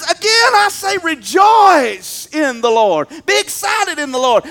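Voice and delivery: slow, drawn-out insistence on Again; preacher hammering the repeat; emphatic repeat. Retold or imitated. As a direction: lean on Again like they missed it. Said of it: "like you didn't get it the first time".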